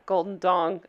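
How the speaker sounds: a hint of a dopey sketch character's low chuckle; low, chuckled mock catchphrase; Chad. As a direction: lightly imitate a character snickering at a word. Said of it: "I sound like Chad".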